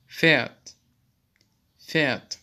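Pferd said pfert with a quick pf; German pf sound. Shown as a demonstration. Teacher modelling the pf sound for students. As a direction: press p into f in Pferd. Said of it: "F diye okunmaktadır".

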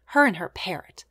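whispered darkly under the breath; dark murmur. A narrator's reading. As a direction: mutter it darkly, barely voiced. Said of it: "going so far as to murmur darkly".

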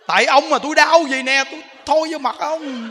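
loud, high mock-furious outburst at the husband; hammed-up angry wife, half laughing; angry labouring wife. Woman in labour lashing out at her husband, mock fury. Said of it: "bả tức".

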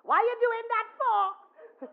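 high, loud and slow, breaking into a laugh; loud, high quizzing voice; loud laughing query. Retold or imitated. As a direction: call it out with a chuckle. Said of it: "he never ever once talked softly".

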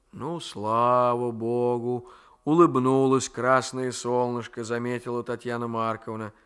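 lightly voiced old grandmother, slow and chiding; a hint of a fond, grumbling old woman; grandmother's voice. Grandmother figure, scolding fondly.

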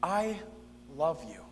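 soft, falling declaration of love; tender. Acted. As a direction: let it sink gently and lovingly. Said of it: "the voice that you hear when someone says".

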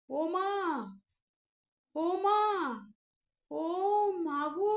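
a touch of fright, barely getting words out; terrified girl barely calling her mother; terrified gasping. Acted. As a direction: choke out a call for mother. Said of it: "কোনো ক্রমে বলল".

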